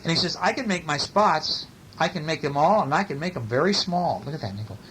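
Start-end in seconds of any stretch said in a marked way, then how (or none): 0.4-4.2 animated picture-book read-aloud; story reading. A narrator's reading. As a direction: read it with big, stretched key words.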